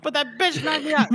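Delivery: high-pitched, worked-up character yell; screaming. Acted. Pock-faced man at the fellow in the breastplate, screaming. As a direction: act out an outraged scream, pitch climbing. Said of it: "is screaming at somebody".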